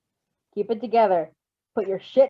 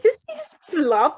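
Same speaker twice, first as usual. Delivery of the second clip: amused; 6 semitones higher, much slower than usual. Real, not acted. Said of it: "x0.5".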